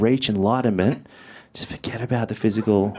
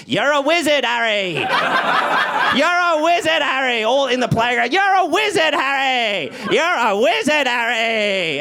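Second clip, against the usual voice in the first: mocking schoolkids; 12 semitones higher than usual. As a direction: taunt him like playground kids. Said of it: "I'd hear".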